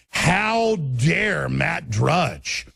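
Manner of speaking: very slow, hammed-up indignation; mock outrage. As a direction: drag out the fake scandal. Parodying media outrage at Drudge.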